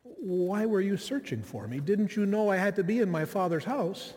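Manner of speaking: calm, gracious, matter-of-fact reply; gentle matter-of-fact son speaking to his mother. Retold or imitated. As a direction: answer kindly, without any edge. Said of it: "in a much calmer tone".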